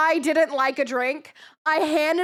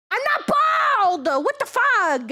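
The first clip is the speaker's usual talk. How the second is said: mock squeal; 8 semitones higher than usual.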